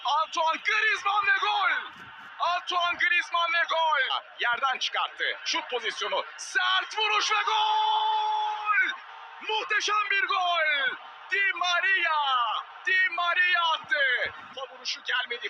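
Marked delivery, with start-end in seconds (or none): 0.0-4.2 screaming football commentator. Real, not acted. Goal called out. 6.4-14.3 screaming football commentator. Real, not acted. Goal call, drawn out.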